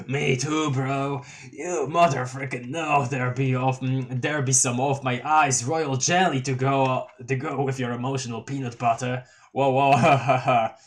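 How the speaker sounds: goofy honking clown troll; silly clown. Acted. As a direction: honk it like a giddy clown. Gamzee gushing.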